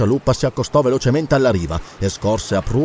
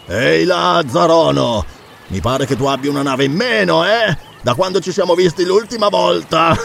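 taunting hail; 3 semitones higher than usual. Acted. Pirate taunts rival about lost ship.

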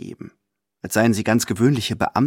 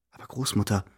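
much softer, almost breathed; 2 semitones lower, 7 dB quieter than usual. Acted. Companion protesting to grandmother, softly breathed. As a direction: let it out on a breath. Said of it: "hauche ich".

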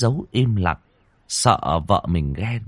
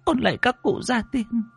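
much higher, pleading chanted prayer; old woman praying. Acted. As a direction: beg the ancestors for protection. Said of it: "Bà chắp tay khấn vái". (giọng bà cụ khấn vái van xin)

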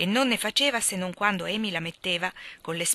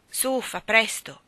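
commanding; 4 semitones higher, 4 dB louder, slower than usual. Acted. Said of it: "comandò Joe".

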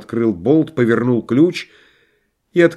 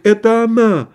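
cry out; 10 semitones higher than usual. A narrator's reading. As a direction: burst out in dismay, pitched up. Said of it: "вскричал багровый Лариосик".

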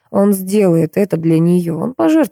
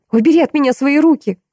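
high, sharp yell; 9 semitones higher than usual. A narrator's reading. Maya yells at Hugo to take his hands off her, high yell. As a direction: snap it at him, pulling away. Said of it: "заорала она".

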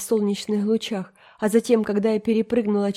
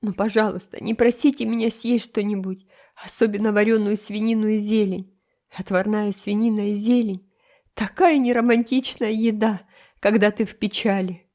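put-on high, melodramatic tearful girl; tearful, tragic; 3 semitones higher than usual. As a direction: play the heartbroken martyr. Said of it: "сказала Энн рыдающим голосом". (Энн трагически, со слезами в голосе)

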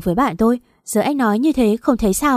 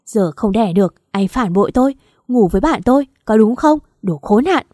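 screaming; 5 dB louder than usual. Acted. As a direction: hurl every grievance at him, screaming. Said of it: "gào lên".

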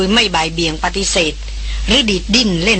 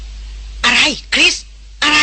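raised, alarmed-sounding demand to know; quick urgent question; 7 semitones higher, much slower than usual. A narrator's reading. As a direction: jolt awake and ask urgently. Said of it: "เขาถามเร็วปรือ".

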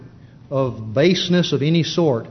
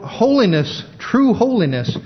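holiness then true holiness, each higher; rising fervor; 6 semitones higher than usual. Real, not acted. Preacher building emphasis.

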